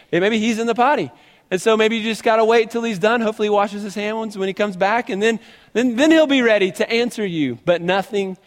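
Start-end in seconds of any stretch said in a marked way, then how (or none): 0.1-1.1 higher, teasing mock suggestion; sarcastic mocking. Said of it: "he's sarcastic and he's jabbing him". 1.5-7.6 higher, teasing mock suggestion; sarcastic mocking. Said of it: "he's sarcastic and he's jabbing him".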